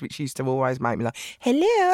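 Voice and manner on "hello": high, posh hello like the queen; mum's telephone voice. Retold or imitated. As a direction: imitate mum's grand telephone greeting. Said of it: "she'd have the telephone voice".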